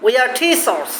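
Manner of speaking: teachers with T like Bengali ঠ, a puff of air after it; aspirated T. Shown as a demonstration. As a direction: model teachers as "thee-chars", retroflex aspirated T. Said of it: "টি উচ্চারণ হবে ঠয়ের মতো।".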